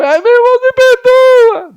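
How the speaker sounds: very high, drawn-out mock whine; whiny fake apology. Preacher mocks a fake apology in a whiny falsetto. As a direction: mimic a fake sugary sorry.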